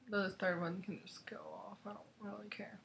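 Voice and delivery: conspiratorial whispered aside; whispering. Real, not acted. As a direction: whisper it like a secret. Whispered aside about schoolbooks.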